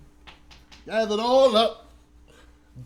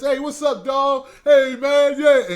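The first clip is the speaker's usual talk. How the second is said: loud, high hey-man greeting to friends; mock shout of hey man to the homies; 5 semitones higher, 9 dB louder, slower than usual. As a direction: holler it like greeting buddies on the block. Mocking friends greeting on the block.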